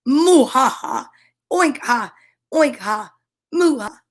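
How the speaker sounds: moos and oinks with villainous ha-has; hammed-up Count Dracula style gloating laugh; animals' last laugh. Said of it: "sound like Count Dracula".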